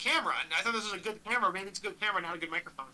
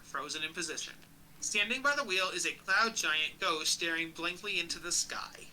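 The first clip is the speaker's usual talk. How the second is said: measured descriptive reading; game master's scene setting; 3 dB quieter, slower than usual. A narrator's reading. Game master describing an icy armoury, measured narration. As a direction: read out the room's contents evenly.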